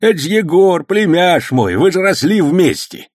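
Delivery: put-on high, loud old man's voice, overjoyed; an old uncle beaming at his nephew; delighted old man. A narrator's reading. Old uncle gladly vouching for his nephew, high and loud. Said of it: "обрадовался появлению племянника Сан Саныч".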